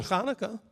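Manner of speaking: Hanukkah begun with a throaty "kh"; guttural first sound. Shown as a demonstration. Giving students the right answer, Hanukkah with guttural "kh". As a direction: say Hanukkah as KHA-nu-kah. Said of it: "It's not Chanukah".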